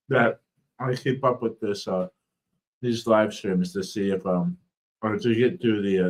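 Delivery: speech thick from a swollen tongue; talking through a swollen, sore mouth. Real, not acted. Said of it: "My, my tongue is swollen".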